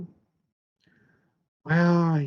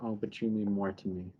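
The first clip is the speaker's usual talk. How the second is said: sweet; 6 semitones lower, 9 dB quieter than usual. Retold or imitated. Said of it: "it ends so sweetly, like".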